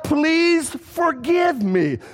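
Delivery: mock pleading prayer. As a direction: beg forgiveness like a worried churchgoer. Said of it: "Nor did he say".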